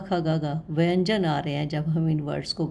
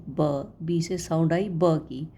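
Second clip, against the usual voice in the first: slow phonics demo; 2 semitones lower than usual. Shown as a demonstration. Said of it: "जैसे हम सीखते हैं बी".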